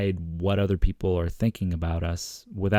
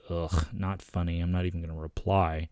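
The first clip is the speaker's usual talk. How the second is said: mock dismissive; 2 semitones lower, 3 dB quieter than usual. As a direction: mimic an eye-rolling, unamused texter. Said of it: "rolling their eyes and going".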